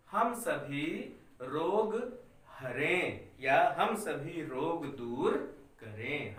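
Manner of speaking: slow, spaced dictation for students to write; धीरे धीरे बोलना. Shown as a demonstration. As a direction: read each word slowly so the class can copy. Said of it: "मैं इतना धीरे धीरे बोल रहा हूँ". (बच्चों को लिखवाने के लिए धीरे धीरे पढ़ना)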